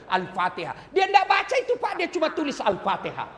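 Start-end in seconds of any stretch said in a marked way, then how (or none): none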